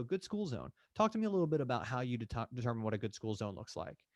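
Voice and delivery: lightly curious, open questioning; curious agent demo. Shown as a demonstration. Agent asking a client to explain, mildly curious. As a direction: ask it with open interest. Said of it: "but go".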